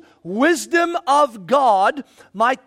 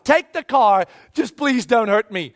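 mild acted begging, in one flow; pleading surrender. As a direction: run it together as an urgent plea. Repeats the surrender as a plea.

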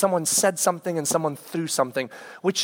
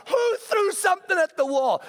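much higher, demanding parent yell; retold demanding shout; 13 semitones higher than usual. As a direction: call out who did it, sharply. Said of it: "I'm shouting at them".

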